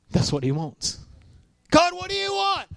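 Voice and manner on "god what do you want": lightly voiced asker, much higher; a sweet, high little question to God; playful high-voiced prayer; mock asking God.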